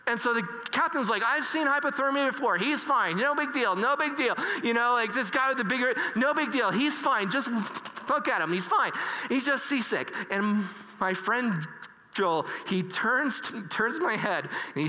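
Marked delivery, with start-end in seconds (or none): 1.3-10.1 dismissive. Retold or imitated. Captain brushing off danger.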